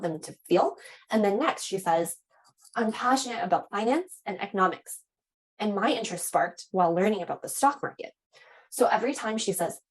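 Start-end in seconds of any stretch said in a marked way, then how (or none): 2.8-8.1 lifted, livelier student answer; passionate, mildly excited. Shown as a demonstration. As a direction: let the key words rise with interest. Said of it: "have your voice go up a bit".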